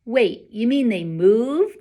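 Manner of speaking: breathy astonished whisper; hushed disbelief; amazed whisper. A narrator's reading. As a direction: whisper it in wonder. Boy amazed at moving letters.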